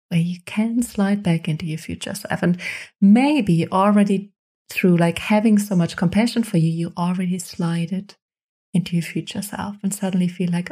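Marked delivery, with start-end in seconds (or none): none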